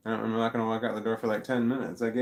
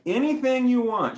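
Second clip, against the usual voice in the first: mock high sing-song voice, much higher and louder; 7 dB louder than usual. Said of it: "I'm like".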